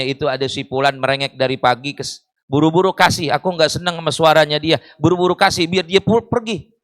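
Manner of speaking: quick, muttered aside to a servant; hurried, mildly irritated order, kept under the breath; displeased master. Acted. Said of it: "nggak senang, ngomong kepada pembantunya".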